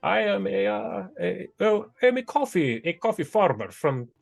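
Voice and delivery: high, proud goblin farmer; goblin man. Acted. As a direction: introduce yourself high and proud. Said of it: "the man says".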